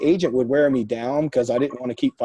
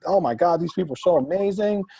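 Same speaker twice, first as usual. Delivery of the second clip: higher-pitched imitation of a gushing agent; mock gushing; 6 semitones higher than usual. Agent raving about buyers through beer goggles, mock gushing. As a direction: gush like an easily impressed agent.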